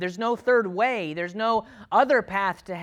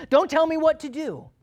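loud, high-pitched defiant outburst; defiant retort; 10 semitones higher, 6 dB louder than usual. Acted. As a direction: lash back at the friend's rebuke. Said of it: "Or maybe he responds".

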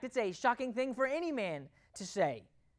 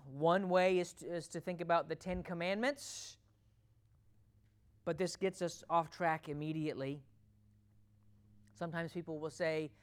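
ordinary talk

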